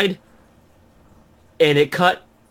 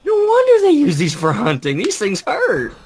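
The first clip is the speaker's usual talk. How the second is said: mock dramatic complaint; 7 semitones higher than usual. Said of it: "I'm like".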